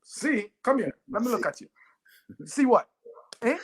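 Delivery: hammed-up Jamaican mother yelling at a C grade; outraged mother shouting. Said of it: "She goes".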